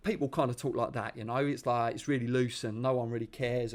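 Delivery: lightly demonstrated Essex accent; Estuary accent. Shown as a demonstration. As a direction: talk in loose, careless Estuary English. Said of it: "known as the Estuary accent".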